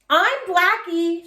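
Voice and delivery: put-on high, slow girl's call; shouted name. A narrator's reading. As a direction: proudly call out the horse name. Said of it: "shouted Lucille".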